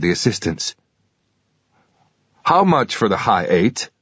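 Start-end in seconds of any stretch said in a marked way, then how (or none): 2.4-3.9 slow, put-on bad American accent; a deliberately poor American accent, taking your time. Buyer asking a pawnshop clerk the price, bad American accent. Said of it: "in my usual bad American accent".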